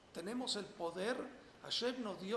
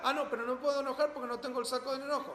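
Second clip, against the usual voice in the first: fast, amused quote through a laugh; 6 semitones higher, 6 dB louder, faster than usual. Retold or imitated. Teacher voices the rabbi refusing anger, laughing and fast. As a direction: play the rabbi shrugging it off with a laugh. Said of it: "alguien le gritaba a enojar".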